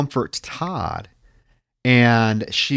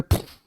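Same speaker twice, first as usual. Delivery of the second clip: imitated gunshot. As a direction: puff out a mock bang. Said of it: "And then you just hear".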